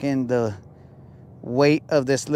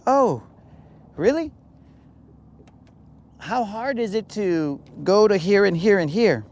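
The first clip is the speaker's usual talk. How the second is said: high, sarcastic mock disbelief; mock incredulous people; 5 semitones higher than usual. Strangers who think he's from Mexico, mocking. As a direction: play a know-it-all stranger, pitched up.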